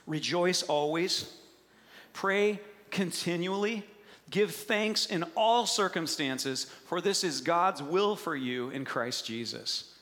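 slow, deliberate scripture reading. Shown as a demonstration. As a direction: read each phrase slowly and weightily. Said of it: "First Thessalonians five sixteen says this".

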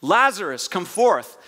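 mildly projected summons; calling out. Acted. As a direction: call someone forth, without shouting. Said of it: "Jesus calls out to Lazarus".

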